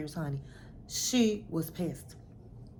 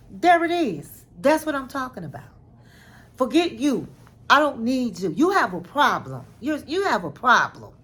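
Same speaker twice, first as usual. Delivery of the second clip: retold, raised and loud; loud quote; 4 semitones higher, 5 dB louder than usual. Husband shouting back at the wife in the quarrel, raised and loud. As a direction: throw it back at her, raised voice. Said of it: "and he was like".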